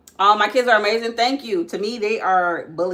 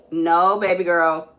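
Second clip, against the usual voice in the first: slow firm call; 5 dB louder, much slower than usual. Real, not acted. Mother warns daughter off climbing, slow and firm. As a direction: stretch it out, a firm stop.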